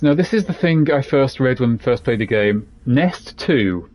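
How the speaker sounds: ordinary delivery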